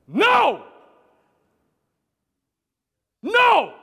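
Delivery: loud, high shouted NO; sharp, full-voiced refusal at a shout; forceful yell. Shown as a demonstration. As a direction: yell it to stop an attacker. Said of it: "I would simply say".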